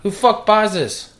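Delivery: slow, high, loud disbelief; exasperated shout. Real, not acted. Exasperated rant about store.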